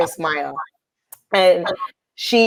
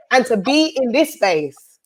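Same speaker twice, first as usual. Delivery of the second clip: holding back tears; 3 semitones higher, slower than usual. Real, not acted. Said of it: "I'm trying not to cry".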